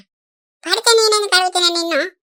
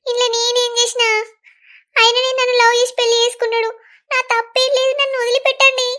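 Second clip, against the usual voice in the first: higher pleading voice, rising to the end; pleading bride; 4 semitones higher than usual. Acted. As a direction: beg them to let go of you, higher and higher. Bride pleads while being tormented.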